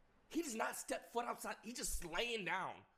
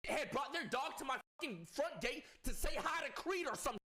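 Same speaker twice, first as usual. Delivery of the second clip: laughing; 7 semitones higher than usual. Real, not acted. Laughing rant about dog fight.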